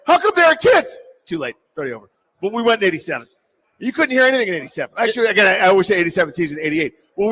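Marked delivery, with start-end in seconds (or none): 0.0-1.0 put-on louder, higher kid pointing at the TV; mock outraged kid. Boy watching the parade on TV, mock outraged and louder. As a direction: play the betrayed kid spotting kids. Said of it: "I'm like".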